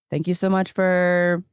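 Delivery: slow customer service line without the perky lift; everyday voice for a phone greeting; unenthusiastic normal voice. Shown as a demonstration. Agent thanking a caller, unenthusiastic normal voice. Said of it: "customer service, like, phrases in your normal voice".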